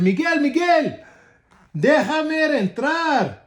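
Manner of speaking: high, slow sing-song call through the window; coaxing wolf call. Acted. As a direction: draw out Miguel's name like a sly wolf begging.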